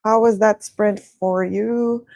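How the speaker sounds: sing-songy. Real, not acted. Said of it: "Why am I speaking in, like, a sing-songy way?".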